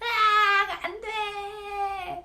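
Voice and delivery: put-on frustrated child crying, high and loud wailing. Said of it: "하고 울어버리는 거예요".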